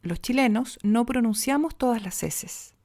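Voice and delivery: natural middle way, "Los chilenos" with some final s kept; some s aspirated, some said. Shown as a demonstration. Coach showing the suggested natural way, only some s pronounced. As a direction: let some s in "todas las eses" soften, sound others. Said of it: "Lo que yo sugiero es esto".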